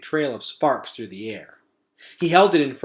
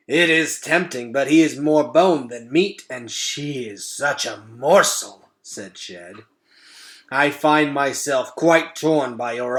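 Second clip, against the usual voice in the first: louder, savouring rat voice; gourmet rat; 5 dB louder than usual. Acted. Shed the rat weighing the offer, savouring. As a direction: weigh the meal like a connoisseur.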